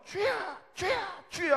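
high, loud fervent call; demonstrated urgent plea; model prayer cry. Shown as a demonstration. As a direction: cry it out to set the tone. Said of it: "어떻게 하냐면요".

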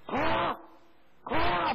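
loud, high shout imitating a healing command; retold commanding shout. Deaconess commanding sickness to leave, imitated shout. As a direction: fire out the order at full voice, re-enacted.

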